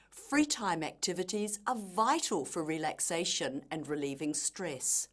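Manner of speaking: "vital" lifted slightly in pitch as the key word; emphasis on VITAL. Shown as a demonstration. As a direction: let the voice go up on "vital" to sound important. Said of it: "Her voice went up slightly".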